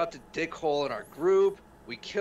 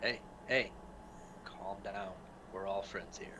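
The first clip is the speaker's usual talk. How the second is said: nervous calming; 7 semitones lower, 10 dB quieter than usual. Acted. Player calms sword-wielding Eliza.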